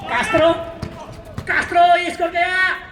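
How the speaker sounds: lively basketball commentary; name each player as the ball moves. Real, not acted. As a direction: courtside commentator following the action. Live basketball play-by-play.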